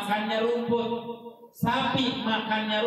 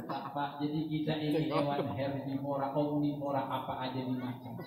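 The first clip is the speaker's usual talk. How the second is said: laughing aside; 5 semitones lower, 7 dB quieter than usual. Real, not acted. Amused aside to audience.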